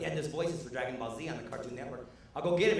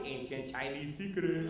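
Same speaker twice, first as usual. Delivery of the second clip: slow, knowing reply; mock wise secret; slower than usual. The comic answering classmates with a slow, mock-wise tone. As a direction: draw it out like a sly old secret.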